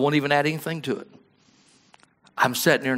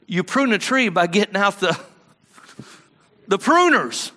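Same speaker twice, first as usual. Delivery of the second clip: rising louder to the pruners; building emphasis; 6 semitones higher, 3 dB louder than usual. Acted.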